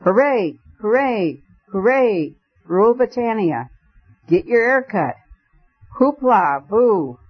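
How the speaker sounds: high, roaring mock-drunk hollering; roared drunken cheers. A narrator's reading. Vicar feigning drunkenness before the policeman, roaring. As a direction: bellow it like a rowdy drunk. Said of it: "roared out".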